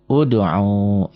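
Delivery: udu'u drawn out with a long final u; pronunciation demo. Shown as a demonstration. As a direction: say udu'u slowly, holding the last u. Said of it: "bunyinya? Ini u".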